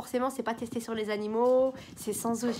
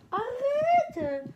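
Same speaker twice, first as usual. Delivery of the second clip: high, loud arrête at the cat; sharp shout; 13 semitones higher, 4 dB louder than usual. Real, not acted. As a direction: snap at the cat to stop. Crie sur son chat. (arrête crié fort et aigu au chat)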